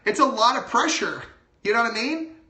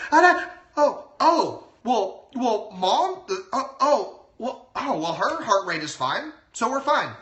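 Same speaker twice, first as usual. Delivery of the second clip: imitating a baby relieved at mom's steady heartbeat; hammed-up baby voice winding down to calm; calming baby impersonation; 3 semitones higher, slower than usual. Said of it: "That's my baby impersonation".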